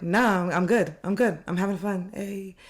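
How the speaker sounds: high, breezy brush-off; cheerful friend. Retold or imitated. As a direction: wave the worry away. Friend answers again.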